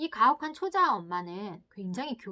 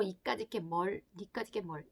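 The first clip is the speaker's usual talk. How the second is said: contemptuous sneer; 3 semitones lower, 4 dB quieter than usual. Acted. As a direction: belittle the child coldly. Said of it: "이런 걸 하고 있는 엄마가 있어요".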